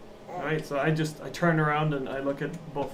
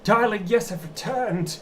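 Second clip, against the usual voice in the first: Jonathan impression; 5 semitones higher than usual. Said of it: "I do my best Jonathan impression".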